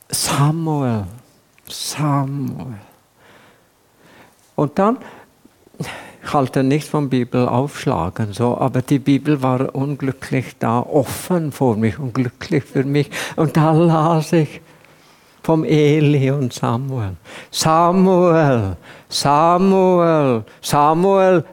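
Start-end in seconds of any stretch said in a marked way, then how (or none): 0.1-2.8 leiser, flehender Ruf nach dem Namen; verzweifelter Ruf. Retold or imitated. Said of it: "Und ich rief". 17.5-21.4 lauter, hoher, feierlicher Ruf; Gott ruft. Retold or imitated. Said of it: "rief Gott".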